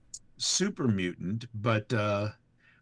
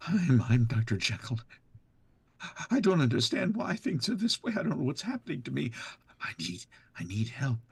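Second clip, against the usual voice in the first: higher, anxious, pleading; fearful Vault Dweller; 4 semitones higher, faster than usual. Acted. Vault Dweller pleading for help, a touch of fear. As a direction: sound lost and scared. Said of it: "revisit Vault Dweller Fearful".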